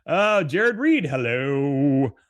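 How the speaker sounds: real happy hello; excited greeting. Real, not acted. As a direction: greet the newcomer with a cheer. Greeting someone.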